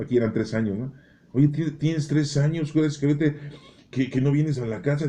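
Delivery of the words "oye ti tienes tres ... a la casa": scolding wife. Retold or imitated. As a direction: stretch out the reproach like an impatient wife. Wife scolds husband in joke.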